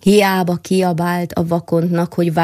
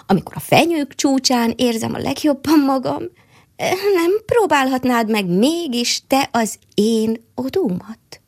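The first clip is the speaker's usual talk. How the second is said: higher, tender squirrel pleading with her friend; 4 semitones higher than usual. Acted. Squirrel begs the mole to try her home instead, higher and pleading. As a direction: coax him sweetly in the squirrel's voice.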